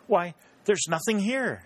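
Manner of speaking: narrated startled discovery; surprised exclamation. A narrator's reading. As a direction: exclaim in astonishment, voice leaping up. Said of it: "she exclaimed".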